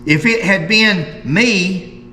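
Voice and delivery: slow, deliberate article reading; reading aloud. Acted. Host reads Mary Vance's words from a newspaper to viewers, slow measured reading. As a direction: read it out in measured, emphatic phrases.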